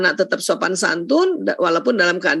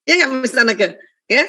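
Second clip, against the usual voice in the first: usual speaking voice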